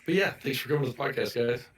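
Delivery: hoarse, sick raspy voice; talking through a raspy sore throat. Real, not acted. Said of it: "ignore my raspy voice".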